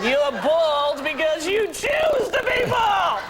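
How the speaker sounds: slow, emphatic mock lecture; hammed-up, drawn-out reproach; retold blunt scolding. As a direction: draw it out like a scolding. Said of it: "I said".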